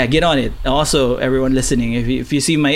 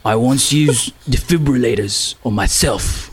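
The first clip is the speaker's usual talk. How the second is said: put-on Cockney accent. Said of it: "you gotta do the Jason Statham accent".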